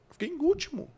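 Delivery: high, whiny mock sob; mock crying. Boy who came last complaining to his coach, high mock whimper. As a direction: wail it like a crying kid. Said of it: "eu falando chorando".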